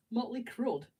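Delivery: giggling at a misspelling; laughing. Real, not acted. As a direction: chuckle through the joke name. Laughs at misspelt band name.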